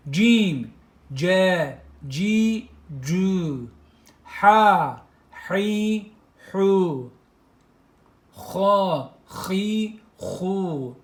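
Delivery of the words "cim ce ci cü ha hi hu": "ce, ci, cü" sounded out one by one; "Ha, hi, hu" with a strong breathy h; teacher drilling syllables aloud. Shown as a demonstration. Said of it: "harekelerini işleyelim".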